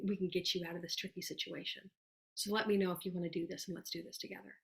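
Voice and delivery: soft, sincere promise to a friend; reassuring reach-out. Acted. Coach voicing a sample message to a worried friend, reassuring. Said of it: "Maybe you're like".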